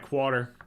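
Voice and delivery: "quarter" said as "kwah-ter"; odd "quarter". Shown as a demonstration. Host showing how people hear his accent, "quarter" as "kwah-ter". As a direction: say "quarter" with the first R dropped. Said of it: "people say it sounds like".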